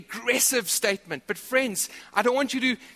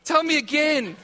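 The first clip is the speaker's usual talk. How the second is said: wife voice; 4 semitones higher, 3 dB louder than usual. Retold or imitated. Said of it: "she goes".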